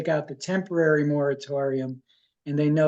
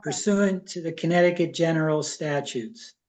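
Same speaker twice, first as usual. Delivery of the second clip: measured reading, phrase by phrase; deliberate reading aloud. Real, not acted. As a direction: read out the motion carefully, pausing between clauses. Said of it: "I'll read it slowly".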